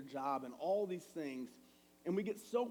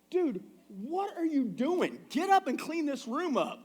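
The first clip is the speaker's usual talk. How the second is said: put-on high, loud, slow "dude" at a messy kid; loud, high exasperated parent scolding; exasperated dad yell; 9 semitones higher, 8 dB louder, slower than usual. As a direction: bark it like a fed-up father. Father yelling at son about room.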